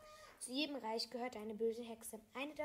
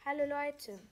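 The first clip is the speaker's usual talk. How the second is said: raised, louder greeting; calling out; 4 semitones higher, 6 dB louder than usual. A narrator's reading. Child greets the villagers from horseback, calling out. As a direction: call out to a whole group. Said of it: "rief ich".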